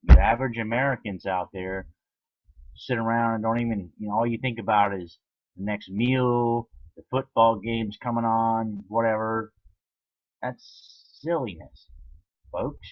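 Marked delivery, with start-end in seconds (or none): 0.0-9.5 raised, forceful ranting voice; loud rant. Real, not acted. Ranting loudly at viewers.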